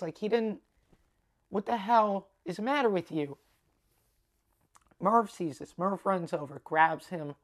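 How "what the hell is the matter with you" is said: retold rebuke in a raised pitch; indignant scolding. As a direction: imitate an outraged onlooker telling him off. Girls scold him in retold scene.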